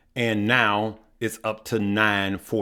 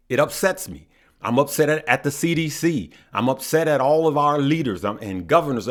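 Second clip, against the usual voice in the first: passionately upset; 5 semitones higher than usual. Real, not acted. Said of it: "I'm extremely passionate about that".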